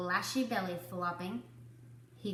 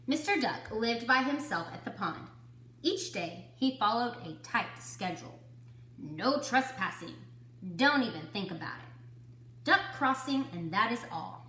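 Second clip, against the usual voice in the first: put-on reading to children. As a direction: clear storybook read-aloud. Teacher reads picture book aloud.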